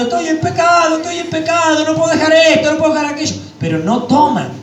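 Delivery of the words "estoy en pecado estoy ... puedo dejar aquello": a higher touch of crying complaint; mock weeping. Pastor imitating weeping people, mild mock sobbing. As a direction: whine it as if through tears. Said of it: "la gente está llorando".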